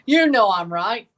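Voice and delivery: teasing laughing insistence. Real, not acted. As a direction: laugh it out, slow and loud. Repeats teasing claim, laughing.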